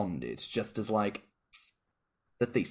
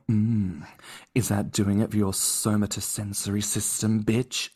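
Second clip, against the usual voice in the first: seductive. Pretend. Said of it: "lean in seductively into your ear".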